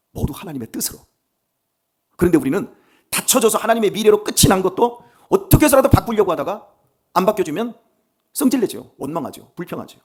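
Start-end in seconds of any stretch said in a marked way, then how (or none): none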